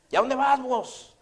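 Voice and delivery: high, loud, stretched question; landlord calling out. Retold or imitated. Landlord asks tenant where he is going, calling out. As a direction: imitate a landlord hailing someone who is leaving.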